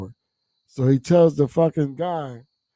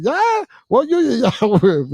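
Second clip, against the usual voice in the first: calling out; 10 semitones higher, 3 dB louder than usual. Retold or imitated. Calling across the highway.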